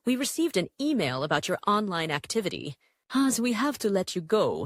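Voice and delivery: the employer reading out a firing without feeling; steady, businesslike, no emotion at all; flat boss voice. A narrator's reading. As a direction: boss firing her, calm and cold. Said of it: "walang emosyon sa tono".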